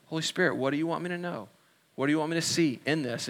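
softly asking the Holy Spirit; soft prayer. Shown as a demonstration. Models a hushed listening prayer.

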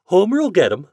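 high, loud plea; pleading. A narrator's reading. Mother promising the store owner her boy's help, pleading. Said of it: "pleaded Missus Tidd".

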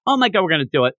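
eager, resolute vow; excited. Acted. Yor vows to finish the job, excited. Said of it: "Yor then gets all excited".

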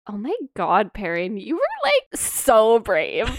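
slow, laughing mock swoon; gushing Min. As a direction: gush over him with a laugh. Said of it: "Min afterwards is like".

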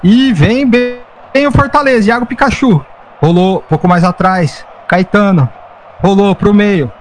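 rising, quickening football commentary; live play-by-play. Acted. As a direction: build up with each attack.

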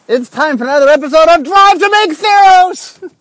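loud, high podcast intro announcement; announcer voice. Acted. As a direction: announce the show title with big energy.

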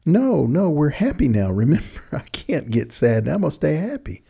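a parent refusing to let the mood drop, sing-song and sunny; cheery mom voice. Retold or imitated. Mom tells her sad kid she's staying happy, in a sunny, insistent voice.

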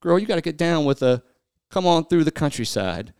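song lyrics read flat, half-spoken; deadpan recital of country lyrics; reading country lyrics aloud in a mostly speaking voice. Pretend. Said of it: "listen in as the speaker read sings us some country songs".

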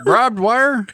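"Barbed wire" as "brobbed wire", pitched high; mispronounced. Real, not acted. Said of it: "you're saying it wrong".

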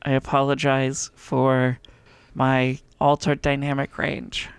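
creaky, scratchy voice; vocal fry. Real, not acted. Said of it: "It's a lot of vocal fry today".

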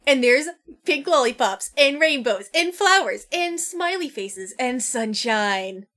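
rising gushing list; excited cutesy description. Acted. Describing cute pink dragon.

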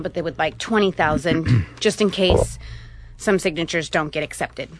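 breathless after running in; short of breath, pausing for air. Real, not acted. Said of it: "Sorry, I'm out of breath here".

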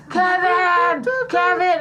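play-acted hollering for someone; pretend calling out. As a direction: call a name as if searching. Acting woman calling out dad's name.

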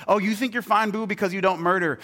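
high, loud mock challenge; Jesus. Jesus confronting listeners on the Mount, high mocking challenge. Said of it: "he said".

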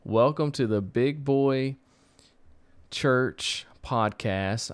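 slow showman announcer; ringmaster. Acted. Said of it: "Ladies and gentlemen, boys and girls, children of all ages".

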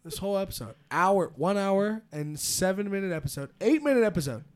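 mock rant. Real, not acted. Complaining friends are downers.

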